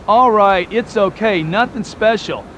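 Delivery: slow, dragging mock-bored shrug; hammed-up dull nothing special; mundane mock reply. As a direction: imitate someone with nothing to look forward to. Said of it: "The person that you're talking about is mundane".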